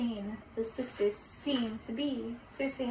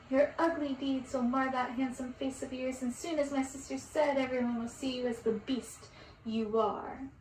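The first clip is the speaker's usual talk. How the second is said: stern curse; 5 dB louder than usual. Acted. Circe pronounces curse.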